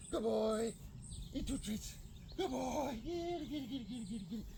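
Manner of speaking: high happy praise. Real, not acted. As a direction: coax him to the treat, bright and high. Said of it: "High and happy tone of voice".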